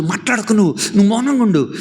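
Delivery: high, firm hush through pain; hushing mother. Acted. Mother in pain hushing her daughter, firm. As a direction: tell her to be still.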